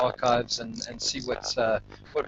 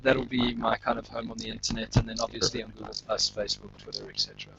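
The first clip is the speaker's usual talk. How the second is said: glitchy robot voice over the call; choppy digital robot sound; 2 semitones lower, 5 dB quieter than usual. Real, not acted. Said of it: "you're sounding a little bit like a robot now".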